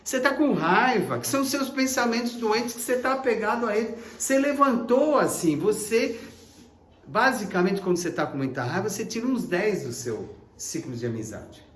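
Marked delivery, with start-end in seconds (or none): none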